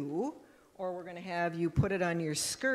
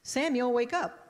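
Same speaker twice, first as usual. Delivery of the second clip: voice of God calling; 6 semitones higher, 4 dB louder than usual. Acted. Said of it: "And the voice says".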